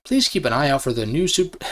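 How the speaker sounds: lightly imitated game-showcase announcer; a hint of stilted presenter delivery; mock Nintendo presenter. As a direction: imitate an awkward promotional read. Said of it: "how fucking Nintendo refers to their games".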